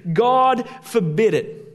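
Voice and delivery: God forbid it, GOD slow and weighty; stress on God. Shown as a demonstration. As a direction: lean on the word God, slowly. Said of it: "the Greek says this".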